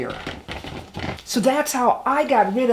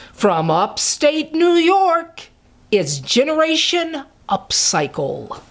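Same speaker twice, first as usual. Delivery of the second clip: hyped giveaway announcement; 2 semitones higher than usual. Real, not acted. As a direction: build suspense, then announce.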